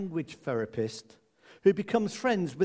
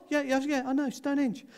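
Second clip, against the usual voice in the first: mock bored teen; 9 semitones higher than usual. Imitating bored teenage daughter.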